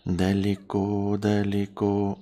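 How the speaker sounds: stretched slow and lazy; drawn out. Pretend. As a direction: drag the word out playfully. Playful repeats of one word.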